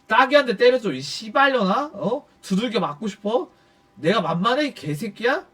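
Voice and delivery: moderately heated, challenging questions; retold angry threat. Man confronts the boss who cursed him, moderately angry. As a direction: reenact picking a fight.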